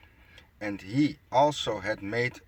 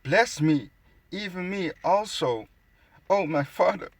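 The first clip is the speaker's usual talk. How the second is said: high whiny overdone sob-plea; mock crying; 8 semitones higher than usual. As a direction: ham up a crybaby begging. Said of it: "Crying like a bitch still".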